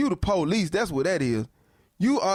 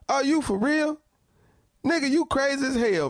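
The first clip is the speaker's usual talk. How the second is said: incredulous; 5 semitones higher than usual. Real, not acted. Incredulous reaction to clip.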